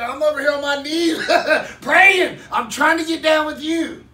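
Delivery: high, loud, laughing through it; retelling a prayer, laughing loudly. Retold or imitated. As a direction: laugh while telling God. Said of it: "I said".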